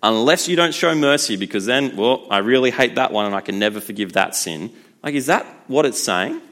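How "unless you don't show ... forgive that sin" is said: raised, loud mock verdict from God, a bit hammed-up; half-joking stern God refusing mercy. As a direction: play a petty judge slamming the door. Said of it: "God's gonna be like".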